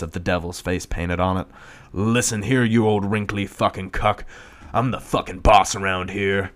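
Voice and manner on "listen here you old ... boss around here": put-on demonic little girl. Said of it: "says a demonic little girl".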